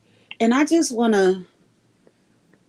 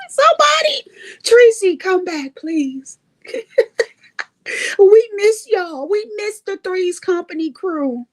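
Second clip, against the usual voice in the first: higher, laughing and pleading; laughing plea; 8 semitones higher than usual. Real, not acted. Begging old friends to come back, laughing. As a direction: beg them back through laughter.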